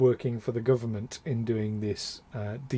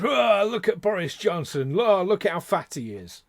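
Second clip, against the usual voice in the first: higher-pitched mock heckler; mocking jeer; 4 semitones higher than usual. Critics poking fun at Boris Johnson's weight, mocking jeer. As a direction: jeer like a sneering onlooker. Mimics people mocking a politician.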